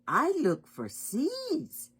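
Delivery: high, slow little-bird voice; sparrow voice. Acted. Sparrow searching for food in a story, high bird voice. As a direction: pitch it up and stretch it out.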